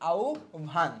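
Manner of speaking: "আহ্বান" said as au, then bhan; teacher modelling "আহ্বান" with an au glide and bh; demonstrated pronunciation. Shown as a demonstration. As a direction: separate "আহ্বান" lightly into au and bhan. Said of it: "এর উচ্চারণ কি?".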